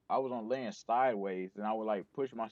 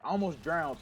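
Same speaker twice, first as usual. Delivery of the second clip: exasperated exclaim; 6 semitones higher, 3 dB louder than usual. Retold or imitated. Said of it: "I was like".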